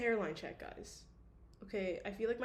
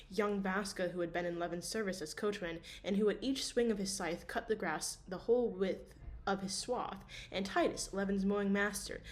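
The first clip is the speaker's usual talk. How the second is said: story narration. A narrator's reading. Continues reading novel.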